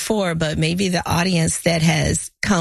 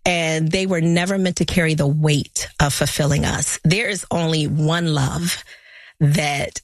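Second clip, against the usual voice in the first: slow, weighty opening narration over music; dramatic intro read; 3 semitones lower than usual. Acted. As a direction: read it like a solemn radio opener, letting each phrase land.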